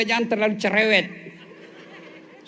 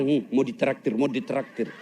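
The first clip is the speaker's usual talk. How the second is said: mocking people; 7 semitones lower, 4 dB quieter than usual.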